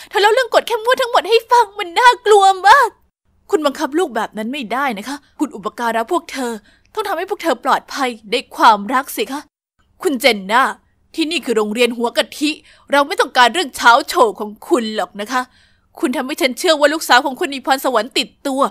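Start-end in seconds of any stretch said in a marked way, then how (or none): 3.5-15.4 stern principal. Acted. Principal reproaches mother.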